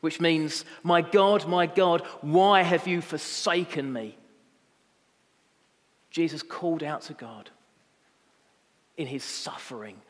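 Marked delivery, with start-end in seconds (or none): 0.8-4.2 raised, pleading cry; loud cry. Acted. Jesus calls out to God in anguish, loud cry. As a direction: call out to God, loud and higher. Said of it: "cried out in a loud voice".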